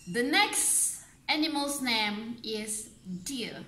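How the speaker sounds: whispered aside to the class. Real, not acted. Teacher whispering the next animal to her students. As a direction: drop to a whisper for the new word.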